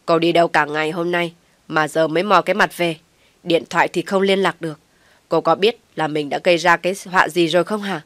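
loud angry demand at the wife; scolding shout. Acted. Husband shouts at his wife for disappearing all day, loud and angry. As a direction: bark at her for coming home late. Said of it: "thì quát".

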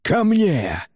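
high rallying cry; battlefield roar. A narrator's reading. Man summons warriors as on a battlefield, rallying cry. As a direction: call warriors to your side. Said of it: "заревел он, как на поле боя".

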